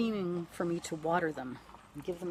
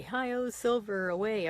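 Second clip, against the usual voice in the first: drawn-out heroic radio cowboy cry, pitched up and loud; Lone Ranger call; 4 semitones higher, 5 dB louder, slower than usual. Retold or imitated. Widow recalling the radio hero of her childhood, slow heroic cry. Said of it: "he'd say".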